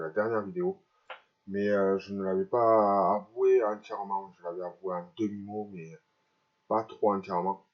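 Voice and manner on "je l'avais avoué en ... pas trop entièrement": talking with dental braces; speech slightly hindered by braces. Real, not acted. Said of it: "si vous sentez que j'ai des problèmes de langage".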